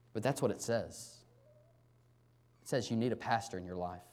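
low, softened voice with long pauses; humble sincerity. Real, not acted. Pastor humbly telling congregation they need a pastor, softly sincere. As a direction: lay it gently before them.

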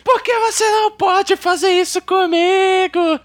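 high, loud whiny brat; bratty rich playboy. Retold or imitated. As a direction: shriek like a spoiled noble brat. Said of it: "Aqueles playboy birrento do século quinze".

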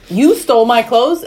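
retold outraged question; mock indignation. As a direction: accuse in comic disbelief. Acts out accusing the thief.

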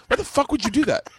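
high-pitched, exasperated demand; indignant squawk, played for comedy; retold indignant protest. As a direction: re-enact an outraged protest to a friend. Retold quarrel over cut-off drinks.

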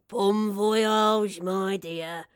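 loud, hearty send-off fading on the last words; amused old man's goodbye, a touch of chuckle; chuckled farewell. A narrator's reading. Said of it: "Runcible chuckled".

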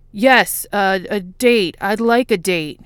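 breathless, loud and slow; hyperventilating. A narrator's reading. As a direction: gasp out the words nervously. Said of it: "Fox appears to be hyperventilating".

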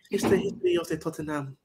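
lightly put-on Italian accent; Giorgio Chiellini. Host imitating an Italian football legend for a bit, mock Italian accent. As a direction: attempt a halting Italian footballer's voice. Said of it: "imitate the voice of a certain".

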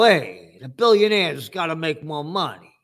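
mocking the rich with a put-on voice; mock billionaire. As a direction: sneer it like a smug tycoon.

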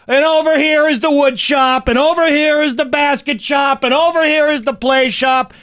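high, loudish rote tour patter; mimicked tour guide. Young guide showing parents round camp, mechanical recital. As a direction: imitate a guide reciting each stop on one high note.

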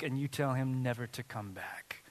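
hushed whisper, almost secret. Real, not acted. Pastor whispering a charge to the congregation, hushed. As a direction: breathe it like a private charge.

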